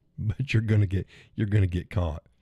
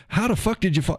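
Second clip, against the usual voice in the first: incredulous; 10 semitones higher than usual. Real, not acted. Reacting to a chatter falling asleep.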